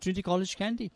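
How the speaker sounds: high-pitched imitation of a Yorkshireman; Geoffrey Boycott's Yorkshire accent. Famous commentator recognising the school, imitated Yorkshire accent. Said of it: "in his nice Yorkshire accent".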